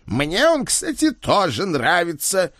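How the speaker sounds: high, slow coy voice; teasing admission. Acted. Ed teasing the father about the suitor, high and coy. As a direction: tease him with a sly confession.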